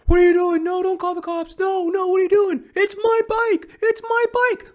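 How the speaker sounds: frantic squeal, pleading it's his bike; panicky bike thief. Retold or imitated. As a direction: mimic a high panicky guy caught at the lock.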